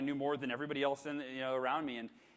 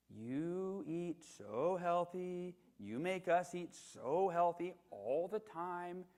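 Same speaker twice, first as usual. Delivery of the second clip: put-on slow, higher child's voice; little girl Sophie; 4 semitones higher, much slower than usual. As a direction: plead like a seven-year-old. Seven-year-old daughter Sophie voiced.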